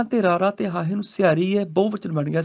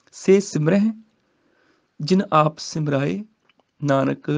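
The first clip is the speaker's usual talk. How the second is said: slow scripture recitation; slower than usual. Shown as a demonstration. Teacher recites the verse for students, slowly. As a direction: chant the verse slowly, rising.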